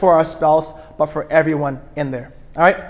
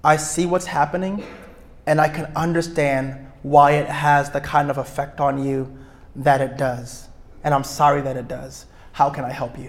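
gentle empathy; 2 semitones lower, 4 dB quieter than usual. Retold or imitated. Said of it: "Empathy says".

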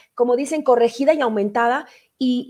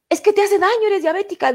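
dad's warning; 8 semitones higher than usual. Retold or imitated. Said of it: "le decía a mi papá".

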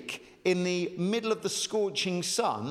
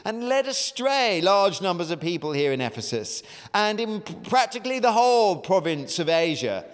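posh voice; 2 semitones higher, 4 dB louder than usual. Acted. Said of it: "said in a, uh, posh voice, probably".

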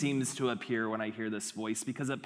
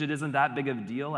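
brushing it off; faster than usual. Acted. Cheating student's inner voice, quickly brushing it off. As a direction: hurry past the guilt. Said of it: "the voice sounds like this".

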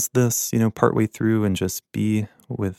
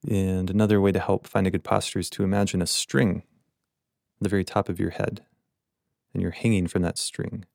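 guided meditation. Acted. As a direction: gently guide listeners into their posture, leaving space between phrases. Leads the meditation.

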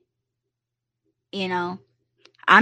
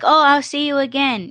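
friendly goodbye; 5 semitones higher than usual. Retold or imitated. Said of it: "I say that to everybody".

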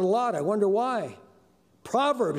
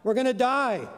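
hammed-up shipwreck panic, pitched up; mock yelling; 6 semitones higher than usual. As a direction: cry it out high like a castaway in a joke. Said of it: "one man started yelling".

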